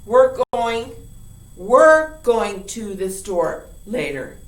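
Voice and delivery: WE'RE said loud and slow, stressed as a mistake; mock wrong sentence; loud wrong example. Shown as a demonstration. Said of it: "you're going to be saying".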